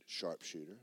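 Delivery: low, soft answer; retold answer, barely voiced; quiet understated claim. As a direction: say it small and low.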